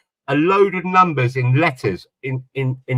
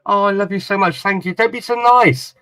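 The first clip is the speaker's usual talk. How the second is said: lightly voiced wife, higher and gushing; 5 semitones higher than usual. Husband imitating his grateful wife, mildly high and gushing. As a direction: mimic a wife pouring out thanks, a touch higher. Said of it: "She goes".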